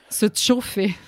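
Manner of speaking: "chauffer" begun with a "tch" sound; Vaudois-style "tch" in "chauffer"; special patois pronunciation. Shown as a demonstration. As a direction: say "se chauffer" with a t before the ch. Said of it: "c'est aussi une prononciation spéciale".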